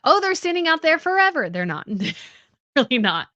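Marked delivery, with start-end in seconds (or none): 0.0-1.5 higher, louder, overdone sigh of impatience; mock exaggerated thought. Imagining the wait, said in a higher, louder overdone voice. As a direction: play up how long it seems. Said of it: "Like, you think".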